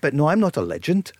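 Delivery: put-on a slip into a foreign-tinged accent while quoting; lightly put-on Bulgarian accent; accidental accent. Radio host quoting the Bulgarian player, slight Bulgarian accent. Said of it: "I don't know why I started that accent".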